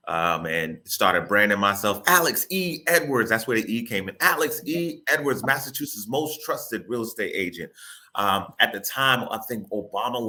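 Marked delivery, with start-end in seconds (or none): 2.1-3.3 punched-up name announcement; radio voice. Shown as a demonstration. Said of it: "you go right into the radio voice". 4.2-7.7 radio-ad name and slogan. Shown as a demonstration. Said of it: "you go right into the radio voice".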